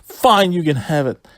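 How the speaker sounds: mock fed-up giving in; exasperated surrender. Wrestler hands over the championship to his friend, imitated exasperation.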